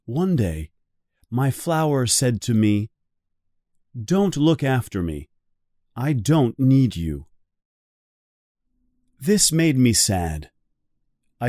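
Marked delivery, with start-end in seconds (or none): none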